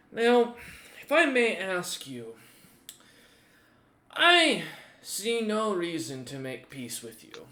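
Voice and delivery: menacing warlord. Acted. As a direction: threaten with cheerful relish. GM voices warlord at length.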